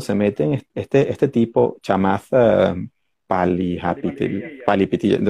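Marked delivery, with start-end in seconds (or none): 1.8-5.2 slow, hesitant stab at "Palihapitiya"; unsure name pronunciation. Real, not acted. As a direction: sound out "Palihapitiya" haltingly, then try it quicker. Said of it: "no sé cómo se pronuncia".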